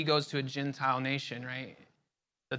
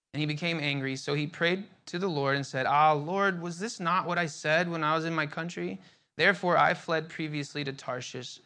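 reading verses out to the group, a touch raised; measured Bible reading; reading the Bible aloud to a study group; scripture reading. Acted. Reads Jonah 4:1-4 aloud.

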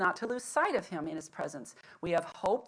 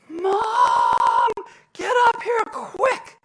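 high, loud yell down the stairs; kids yelling down; 14 semitones higher, 13 dB louder, much slower than usual. Retold or imitated. Boys at top of stairs yell down to mom, high panicked shout. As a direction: holler urgently for mom from upstairs. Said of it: "yelled down".

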